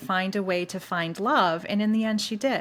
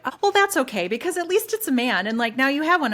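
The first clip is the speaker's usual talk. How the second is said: high, loud mocking voice of the coworkers; 7 semitones higher, 5 dB louder, faster than usual. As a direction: parody people who only care that he's a man. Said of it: "they're like".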